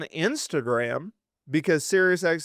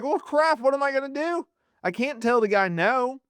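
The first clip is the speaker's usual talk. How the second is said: much higher, exasperated mock voice; mock Triple H; 10 semitones higher than usual. Host mocking Triple H stuck under Rock, high exasperated voice. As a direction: play him cornered and whiny, high. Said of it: "He's like".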